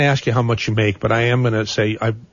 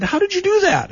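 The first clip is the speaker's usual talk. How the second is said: retold question. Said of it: "And I said".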